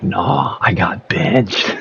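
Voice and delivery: laughing, half-shouted realisation; realising he got benched, laughing and shouting; laughing disbelief. Retold or imitated. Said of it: "I'm like".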